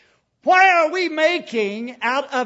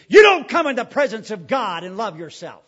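ordinary delivery

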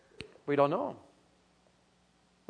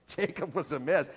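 usual speaking voice

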